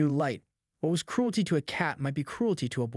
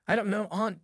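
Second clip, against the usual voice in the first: gasping; 5 semitones higher than usual. Acted. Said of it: "gasped the boy".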